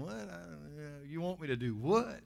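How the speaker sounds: mock reluctance, mumbled middle; reluctant balking. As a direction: lightly act someone balking at a request. Acted reluctant churchgoer balking.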